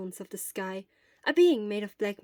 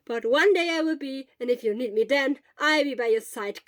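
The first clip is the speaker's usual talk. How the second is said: earnest promise; 4 semitones higher, 8 dB louder than usual. Acted. Hisashi earnest loud promise.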